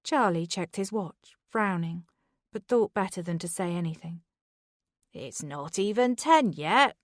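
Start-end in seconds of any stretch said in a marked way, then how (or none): 5.1-6.9 whining. Acted. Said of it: "Derek whined".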